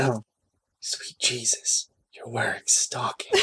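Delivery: breathless hushed read; whispering. Acted. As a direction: breathe it out in awe. Reading the line breathily.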